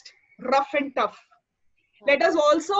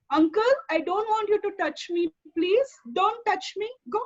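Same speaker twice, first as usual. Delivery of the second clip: assertive; 4 semitones higher than usual. Shown as a demonstration. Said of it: "this is assertiveness".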